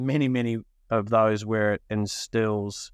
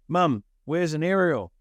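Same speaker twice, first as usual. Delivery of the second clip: higher, drawn-out call to mum; 7 semitones higher than usual. Retold or imitated. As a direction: call out like a puzzled kid needing help. Child calling out to mum.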